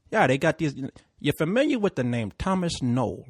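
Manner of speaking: lightly imitated Puerto Rican cabbie; chatty mock Puerto Rican driver; bad Puerto Rican accent. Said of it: "I'm gonna do it bad accent".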